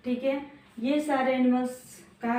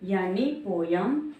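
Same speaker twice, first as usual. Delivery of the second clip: sounding out words. Shown as a demonstration. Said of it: "छोटी की मात्रा".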